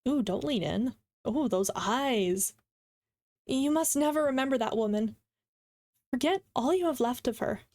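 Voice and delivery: measured reading with long pauses; unhurried, expressive storytelling; dramatic story narration. Acted. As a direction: read the story aloud, acting the quotes. Reads a story aloud.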